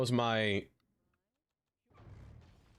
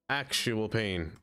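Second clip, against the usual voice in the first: slow; much slower than usual. Shown as a demonstration. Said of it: "repeats it slower".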